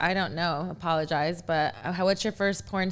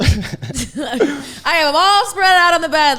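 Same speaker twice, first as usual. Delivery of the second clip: laughing; 7 semitones higher, 11 dB louder, slower than usual. Real, not acted. Laughing while telling the scene.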